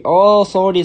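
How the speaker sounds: ordinary talk, nothing marked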